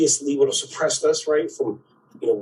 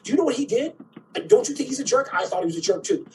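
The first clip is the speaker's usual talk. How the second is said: high, excited gossip voice, pitched way up; gossipy complaining friend; 9 semitones higher, faster than usual. Retold or imitated. Angry gossip ringing a friend about a jerk, high and indignant. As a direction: stir up friends against him.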